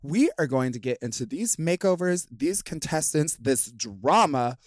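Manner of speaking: upbeat podcast host read. Acted. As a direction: announce it like a show host.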